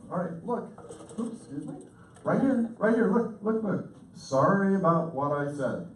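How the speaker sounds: high, loud, insistent demand for attention; intense tone. Retold or imitated. Husband snapping at a listener who missed something, intense. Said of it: "people sometimes are intense".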